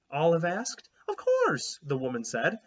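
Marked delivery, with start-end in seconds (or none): 1.1-1.8 high, loud "of course"; as if the question were silly; incredulous. A narrator's reading. Pilgrim lady to the girls, high incredulous scoff.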